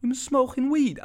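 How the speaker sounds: high, loud sudden accusation; imitating the dad's loud shocked question; shocked dad shout. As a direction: bellow it like a dad catching his son. Dad suddenly smells weed.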